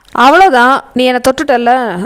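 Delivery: ordinary delivery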